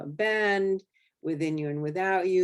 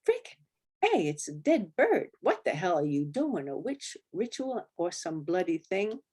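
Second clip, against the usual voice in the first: mock yell; 2 semitones higher than usual. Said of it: "one of them yelled".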